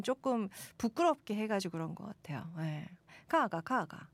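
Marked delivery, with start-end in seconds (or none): 3.3-4.1 rise-and-fall Gyeongsang tones; Gyeongsang dialect. Shown as a demonstration. Host about to explain the phrase, Gyeongsang accent. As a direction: demonstrate the Gyeongsang lilt. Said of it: "가가, 가가는 갱상도 말인데".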